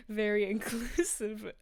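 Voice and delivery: slow, dry and sarcastic; deadpan the irony. Real, not acted. Ironic remark on a decoration.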